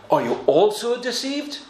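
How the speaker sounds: a sneering, scornful question on "also"; sniggering contempt. Acted. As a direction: look down your nose as you ask it. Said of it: "the snigger and the contempt in these words".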